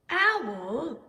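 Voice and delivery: calling out loudly down the stairs; anxious call down the stairwell; cried out. A narrator's reading. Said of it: "he cried".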